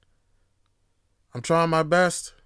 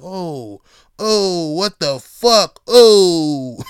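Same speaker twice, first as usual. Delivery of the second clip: startled shout; 10 dB louder, much slower than usual. Retold or imitated. Startled extra on Sopranos set.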